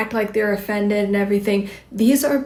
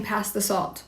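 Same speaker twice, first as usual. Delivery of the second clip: neutral bland; 6 dB quieter than usual. Shown as a demonstration. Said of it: "the most neutral, bland way".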